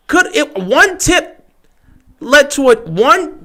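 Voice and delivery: high, rushed stammer; words tumbling over each other; excited babble. Real, not acted. Fan sputtering about the tipped ball.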